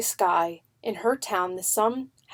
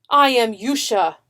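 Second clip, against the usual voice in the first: proud call; 2 semitones higher, 6 dB louder than usual. A narrator's reading. Calling through the wall.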